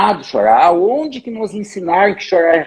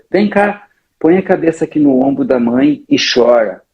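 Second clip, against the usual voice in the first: lower, tender mother's voice; comforting mother; 5 semitones lower than usual. Retold or imitated. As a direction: hold your child and share her grief. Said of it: "tu diz assim".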